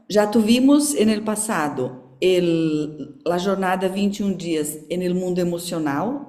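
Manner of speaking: Portuguese-tinged Spanish; switch to Spanish. Real, not acted. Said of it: "vou falar um pouquinho espanhol".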